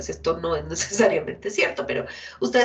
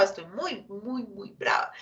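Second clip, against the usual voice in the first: very angry; 6 dB quieter than usual. Shown as a demonstration. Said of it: "la expresión emocional es gigante".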